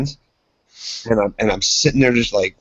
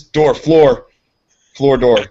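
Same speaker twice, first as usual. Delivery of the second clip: mock gibberish; 3 semitones higher, 7 dB louder, much slower than usual. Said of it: "just what I speak in English".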